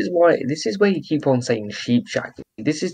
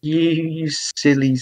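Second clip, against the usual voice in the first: slow drawn-out insult; much slower than usual. Retold or imitated. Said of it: "like the original guy and been like".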